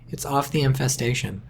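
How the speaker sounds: ordinary talk, nothing marked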